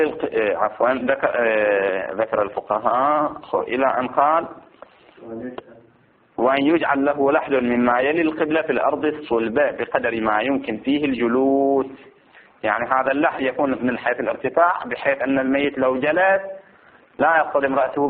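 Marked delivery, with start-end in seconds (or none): 6.4-11.9 measured, raised recitation of a legal text; formal text reading. Acted. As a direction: read out each phrase deliberately, drawing out the ending. Reads the book text aloud.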